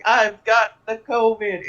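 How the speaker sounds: half-hearted imitation of a yell; retold yelling. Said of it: "running around yelling".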